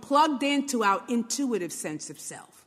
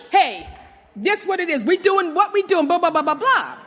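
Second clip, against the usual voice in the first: fast, loud, blunt New Yorker; brisk New York talk; 5 semitones higher, 6 dB louder than usual. Retold or imitated. Brooklyn girl showing her direct New York way. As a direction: cut straight to it, no fluff. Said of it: "That's my New York".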